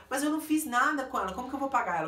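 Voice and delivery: lightly mocking his complaint; protesting man. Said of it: "Aí foi quando ele falou".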